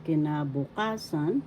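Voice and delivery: kinabukasan with weight on KA, the fourth syllable; stress on fourth syllable. Shown as a demonstration. Teacher telling learners how to pronounce it, kinabukasan stressed on KA. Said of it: "The fourth syllable has the accent".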